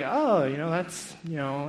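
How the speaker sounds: imitating mildly puzzled children; hesitant, dragged-out kid answer. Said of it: "they're kind of puzzled".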